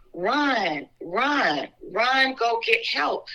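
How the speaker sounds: each "run" drawn out, arcing and falling; retold urgent plea. Mother telling her kids to flee the knife, retold urgent plea. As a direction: retell a slow, stretched-out plea without shouting.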